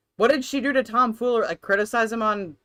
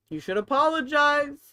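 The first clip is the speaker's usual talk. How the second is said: sweet, higher sing-song scold; cutesy voice; 5 semitones higher than usual. Acted. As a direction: say it sweetly, like to a child. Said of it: "I say that in a cutesy voice".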